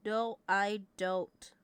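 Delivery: slow, drawn-out emphatic denial. Shown as a demonstration. Streamer insisting to chat, slow drawn-out denial. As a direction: drag each word out to insist.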